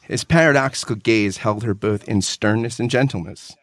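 measured, heartfelt book reading; reading a favorite book passage aloud to a co-host; earnest reading aloud. Acted. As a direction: read it like a treasured passage.

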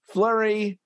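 Sven reading. Acted. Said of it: "Sven Spocket says".

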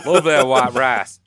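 low, slow put-on accent; red-herring "Chinese" accent. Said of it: "This will be our Chinese accent".

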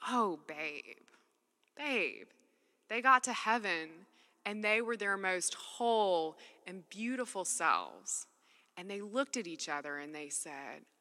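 softly quoting the husband's gentle words; a tender, understated husband comforting his wife; gently. Retold or imitated. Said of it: "my husband said really gently".

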